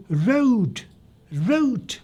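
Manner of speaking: राउट with a rounded "ow" glide, high and light; ow diphthong demo. Shown as a demonstration. Teacher modelling राउट for the class, high rounded "ow". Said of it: "तो इसको रूट नहीं पढ़ेंगे".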